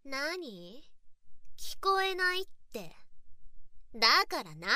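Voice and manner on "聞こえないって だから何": louder, sharp taunting call; mock-deaf loud demand. Pretending not to hear her partner, loud taunting demand.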